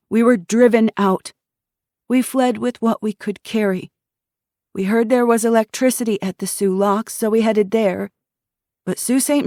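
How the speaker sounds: put-on a young woman telling how her town got by; earnest young woman. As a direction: tell it straight, tired but proud. Miriam recounts the attack.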